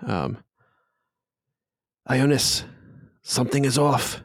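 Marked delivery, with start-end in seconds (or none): 2.1-4.2 slightly higher, lightly voiced figure; lightly acted higher-pitched warning; uneasy character. First of two figures speaking.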